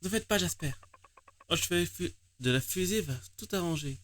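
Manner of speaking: pleading character. Acted.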